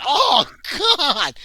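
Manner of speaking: loud high anguished cry, half laughing; cry of pain. Acted. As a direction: yelp as you hurt yourself. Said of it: "And you're like".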